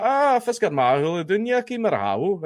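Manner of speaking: mock-obnoxious comeback. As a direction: wind them up with a sing-song retort. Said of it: "be a complete dick back to them".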